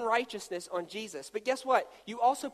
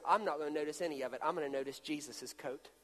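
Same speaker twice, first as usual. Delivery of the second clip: voice of God; 6 semitones lower, 8 dB quieter than usual. Acted. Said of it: "So God says".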